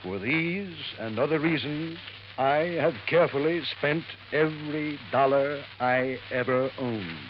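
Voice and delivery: measured, solemn reading with pauses; formal will reading. Acted. Lawyer reading the will to waiting heirs, formally. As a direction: read out a legal document, phrase by phrase.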